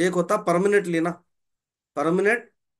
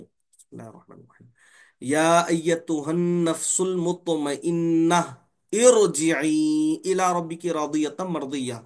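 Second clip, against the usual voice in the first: Quran recitation. Acted. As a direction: recite the ayah reverently, stretching इरजिई. (तिलावत के अंदाज़ में)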